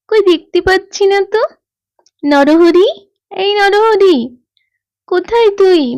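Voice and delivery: calling out. Acted. Child searches, calls rooster, parents.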